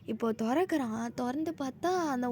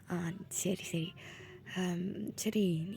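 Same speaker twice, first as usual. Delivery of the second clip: low meek agreement; 6 semitones lower, 9 dB quieter, much slower than usual. Acted. Subdued agreement.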